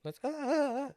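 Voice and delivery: high, loud pubescent voice crack. Real, not acted. Host fumbling for the closing word, voice cracking. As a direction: voice cracks way up high mid-phrase. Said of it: "going through puberty again?".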